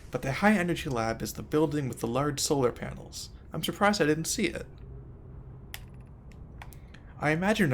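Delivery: measured read-out of game text; reading aloud. A narrator's reading. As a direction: read the in-game messages out evenly.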